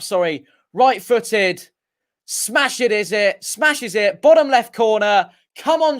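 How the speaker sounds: keyed-up live football commentary; play-by-play. Real, not acted. Streamer urges Marquis on from the spot, keyed-up commentary. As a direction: call the penalty kick with drawn-out, punchy phrases. Live call of the penalty kick.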